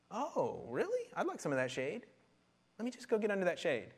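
lightly voiced eager taker, pitch leaping up; mock shade pursuers. Shade pursuers hear of free things, mock eager interest. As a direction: pretend sudden interest, high on the surprise. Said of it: "shade pursuers".

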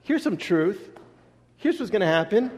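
a hint of a patient father setting his son straight; voicing God. Preacher voices God answering the Sadducees like a father. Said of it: "It's kinda like".

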